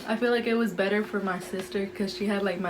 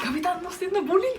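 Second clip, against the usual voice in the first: mom's line, much higher and laughing through it; laughing mom quote; 10 semitones higher than usual. Retold or imitated. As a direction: voice mom but keep laughing.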